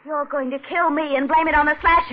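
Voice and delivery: terrified crying accusation. Acted. Wife cries out as she realizes he'll kill her. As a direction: choke it out through tears.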